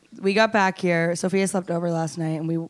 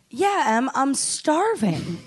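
higher, very slow, drawn-out mock whine; hammed-up plea for food; imitating drunk friend; 4 semitones higher, much slower than usual. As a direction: stretch it out like a starving drunk friend. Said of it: "And then you were like".

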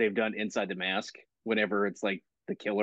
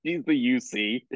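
high laugh on the words; 6 semitones higher, slower than usual. Real, not acted. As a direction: laugh as you say it. Laughing while answering.

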